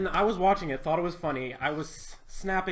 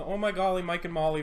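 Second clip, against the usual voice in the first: put-on Russian accent. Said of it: "voice with the Russian accent".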